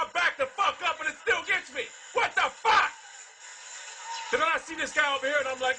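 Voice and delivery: raging gamer. Real, not acted. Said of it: "raging at Call of Duty".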